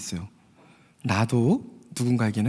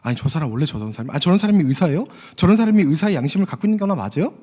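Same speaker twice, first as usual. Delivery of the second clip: acted indignant father, rising higher as he goes; retold protest, building to a raised pitch; angry confrontation; 3 semitones higher than usual. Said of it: "화가 난 아버지는 옆에 있던 간호사에게 따졌어요".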